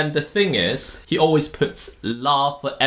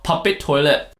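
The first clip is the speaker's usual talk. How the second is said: Malaysian accent; 4 semitones higher than usual. Shown as a demonstration. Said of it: "Well, it's an accent thing".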